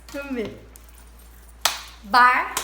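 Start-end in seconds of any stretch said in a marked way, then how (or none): 2.0-2.5 "Bárbara" in three separated beats, loud start; syllable by syllable. Shown as a demonstration. Teacher splitting own name for pupils, "Bárbara" beat by beat. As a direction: break "Bárbara" into bár, ba, ra. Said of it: "Separe o seu nome em sílabas".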